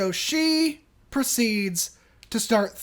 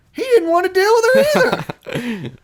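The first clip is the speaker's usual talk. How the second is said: much higher, louder and fast, bursting out; excited emphasis; 10 semitones higher, 8 dB louder, faster than usual. Real, not acted. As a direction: blurt it out with disbelief. Incredulous emphasis on the husband.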